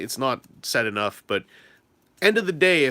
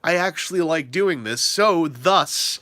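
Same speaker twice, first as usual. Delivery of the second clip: calm self-reassurance; 3 semitones higher, slower than usual. Retold or imitated. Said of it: "when you're like".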